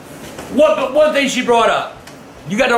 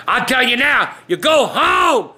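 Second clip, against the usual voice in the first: raised warning voice, stretched out; stern scold; 3 semitones higher, slower than usual. Retold or imitated. Old man warning the boys to go home, stern raised voice.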